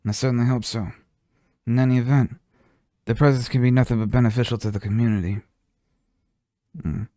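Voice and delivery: put-on mild mob boss accent, unhurried; lightly done gangster boss explaining the rules; Godfather accent. Godfather explains to goblin Grick, light mob accent. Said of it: "I love doing the Godfather".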